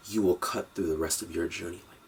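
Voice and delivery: soft confiding whisper. Acted. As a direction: lean in and whisper the payoff. Confiding payoff of the advice.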